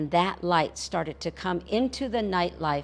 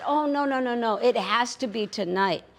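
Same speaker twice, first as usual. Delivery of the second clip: eager insisting; 5 semitones higher, 3 dB louder than usual. Acted. Coyote insists on tonight.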